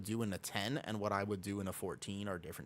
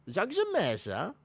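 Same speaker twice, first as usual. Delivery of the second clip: higher, louder, slow Borat-style Kazakh accent; 9 semitones higher, 7 dB louder, slower than usual. Shown as a demonstration. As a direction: ham up a Borat accent for the stream. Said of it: "And I can also do Borat".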